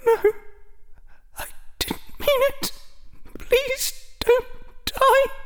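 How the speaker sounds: high, breathy woman begging; a terrified woman whispering a plea; desperate plea. Acted. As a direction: plead for his life, almost whispered. Woman pleading in Azkaban memory.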